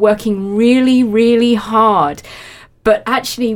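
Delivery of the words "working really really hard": drawn-out, impressed praise; mock admiration. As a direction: stretch it out as if awed by their effort. Voicing the approval show-offs want.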